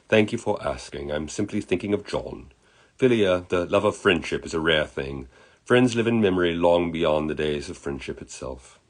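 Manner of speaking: thoughtful put-on British accent; lightly hammy British gentleman; terrible British accent. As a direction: reflect gently as an amateur-accented Englishman. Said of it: "I do a terrible British accent".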